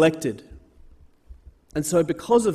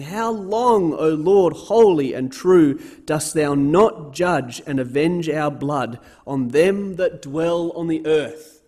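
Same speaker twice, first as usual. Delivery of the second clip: raised, pleading cry to the Lord, slower; loud cry; 3 dB louder, slower than usual. Acted. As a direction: call it out as martyrs crying to heaven. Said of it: "they cried with a loud voice".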